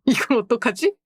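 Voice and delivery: high giggling panic; laughing dismay. Real, not acted. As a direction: squeal through a laugh.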